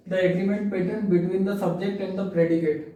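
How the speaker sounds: very slow, each word spaced; slow dictation. Shown as a demonstration. Teacher reading the agreement rule to students, slowly. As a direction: read it at dictation pace. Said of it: "teacher reads rule slowly".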